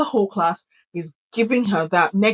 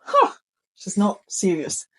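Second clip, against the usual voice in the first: put-on kids shrugging off a shout. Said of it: "When I shout".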